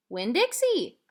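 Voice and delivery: loud, high shout of the name. A narrator's reading. Little girl telling the ending, excited shout. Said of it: "shouted Sweetie Pie".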